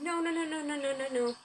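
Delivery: acted high-pitched string of objections; protesting refusal. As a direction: run of no's, starting high and sliding down. Story character protests repeatedly.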